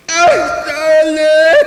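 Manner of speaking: high, loud, wailing cry of grief; a mourner's keening call. Shown as a demonstration. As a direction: wail it out so it pulls at the heart. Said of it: "gotta make that sound that draws into your heart".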